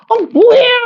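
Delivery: put-on high, indignant teen girl voice; imitating annoyed daughter. Teacher mimicking daughter caught changing clothes, high indignant. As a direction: act out the daughter's outraged complaint. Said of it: "그러고".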